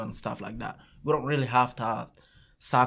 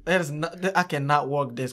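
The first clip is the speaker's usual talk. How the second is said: higher and louder mock pleading; 6 semitones higher, 5 dB louder than usual. Jamal begging the coach to stay, higher and louder. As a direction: cry out that you can't do it alone. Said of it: "It's like".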